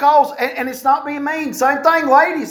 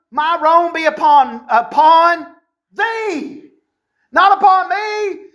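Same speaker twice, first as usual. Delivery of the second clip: 1 high blaming Sarah; 4 semitones higher, slower than usual. Acted. Sarah blaming Abram, voiced.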